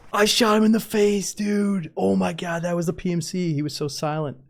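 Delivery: high loud stunned disbelief; shocked. Real, not acted. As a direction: blurt it out in shock. Shocked after shooting teammate.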